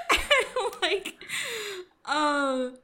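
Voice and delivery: high-pitched burst of laughter; laughing hard. Real, not acted. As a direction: laugh through the words. Laughing at own story.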